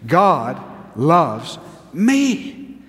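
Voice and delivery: slow and full-voiced. Shown as a demonstration. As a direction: say it so they believe you. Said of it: "'cause I'm not convinced".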